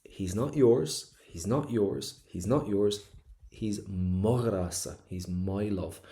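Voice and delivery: insistent weight on "not yours" and "my"; possessive emphasis. Acted. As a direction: stake her claim, leaning on "yours" and "my". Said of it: "she's putting an emphasis on this is her man".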